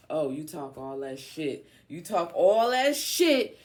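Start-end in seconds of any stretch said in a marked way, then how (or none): 1.9-3.6 high, drawn-out shouting; loud taunt. Acted. Calling out Leo while reading the cards, loud taunt.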